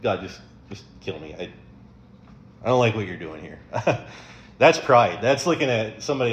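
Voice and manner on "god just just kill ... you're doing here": sulking Jonah. Retold or imitated. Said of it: "can you imagine just, like".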